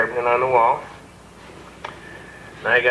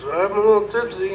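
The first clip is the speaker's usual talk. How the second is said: put-on higher, sheepish drunk voice; tipsy inmate; 6 semitones higher than usual. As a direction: play the tipsy lad.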